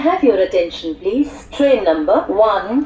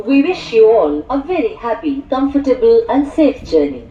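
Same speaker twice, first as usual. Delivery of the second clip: muffled railway station announcement. Acted. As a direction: announce the train over the platform speakers.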